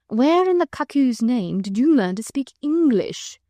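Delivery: slow, drawled amazement; lazy wonder. Acted. Percy marvelling at the Vicomte's English, in slow lazy wonder. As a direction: marvel at it, slowly, a touch of mockery. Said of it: "with undisguised wonderment".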